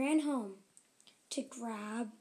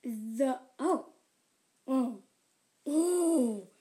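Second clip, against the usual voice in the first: ogre grunts; 3 dB louder, much slower than usual. Acted. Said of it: "he grunted".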